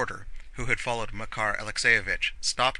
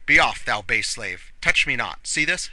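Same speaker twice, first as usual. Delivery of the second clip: loud, emphatic commands; shouting; 7 dB louder than usual. A narrator's reading. Drunk old man brandishing a pistol at servant, shouting. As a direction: shout a slow warning that lifts at the end. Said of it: "shouted Makar Alexeyevich".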